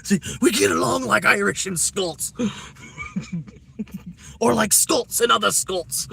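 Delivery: high and loud through laughter; laughing while joking. Real, not acted. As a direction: crack up while telling the joke. Jokes about Irish and Scots.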